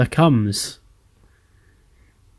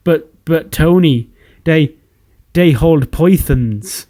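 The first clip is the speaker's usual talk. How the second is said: sarcastic; 3 semitones higher, slower than usual. Retold or imitated. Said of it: "Sheamus would interrupt sarcastically".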